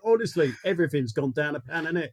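mock grumbler. Moaning to podcast friends about the cost of living, mock grumbling. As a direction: grumble in a put-on common voice.

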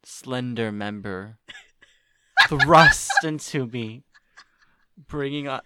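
slow, hammed-up erotic audiobook read; obnoxiously sensual. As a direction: draw out each phrase, mock-seductive. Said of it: "obnoxiously sensual".

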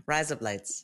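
soft mock Aussie accent; quiet put-on Australian twang. Shown as a demonstration. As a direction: put on Australian vowels, softly. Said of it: "Australian accent".

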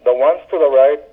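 lightly voiced New York friend giving directions; a hint of a cheerful local giving grim directions; his cadence. Friend giving directions to Queens, in a lightly mimicked cadence. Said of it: "the cadence of his voice when he was giving these directions".

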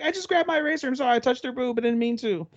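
high, panicky apologetic voice; flustered excuse. Retold or imitated. Naoya apologizes to the class, flustered and high. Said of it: "They're like".

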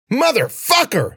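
high, loud, drawn-out curse; screamed. A narrator's reading. Cece screaming as the wall of brambles holds. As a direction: scream it with fury. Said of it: "she screamed".

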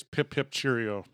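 slow mock English farewell; fake English accent. Shown as a demonstration. Host showing how to fake it, mock English accent. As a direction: demonstrate a token English accent. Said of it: "All you have to say is".

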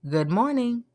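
small, polite re-enacted greeting; understated greeting. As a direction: repeat it softly, as a harmless little greeting.

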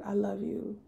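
soft unvoiced whisper. Priest whispering to her on camera, soft whisper. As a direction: breathe it tenderly. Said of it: "he was like".

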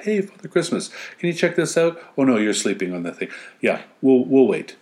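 mocking the useless subjects; lightly voiced dopey servants. Mock subjects speaking.

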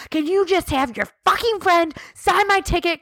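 high-pitched, hammed-up exasperated plea; dramatic, near tears. Telling off someone over a ticket signature, dramatic and near tears. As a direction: retell it as an overwrought, tearful plea. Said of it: "near tears. I, why am I so dramatic".

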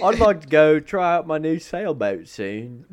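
lightly voiced British Forrest Gump. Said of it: "he is encroaching on Forrest Gump".

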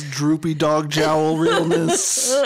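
slow, drawn-out sassy drag queen. Acted. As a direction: lay on the drag queen sass, laughing. Drag slang banter.

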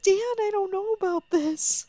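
high, drawn-out mock alarm. Telling co-host how scared the Nazi remark made her, alarmed. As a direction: pitch it way up, stretching the worry.

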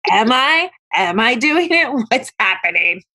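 mock confused questioning; retold mock bewilderment. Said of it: "And he's like".

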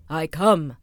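pompous rat king; self-important king. Acted. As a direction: announce yourself like a proud little king. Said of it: "very importantly".

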